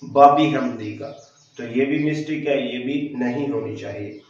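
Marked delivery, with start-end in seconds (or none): 0.0-1.1 बाबी हमदी का with a b sound instead of w; wrong ba for wa. Shown as a demonstration. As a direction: say बाबी with b where व belongs. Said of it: "वाओ को भी बा बनाकर पढ़ देते हैं".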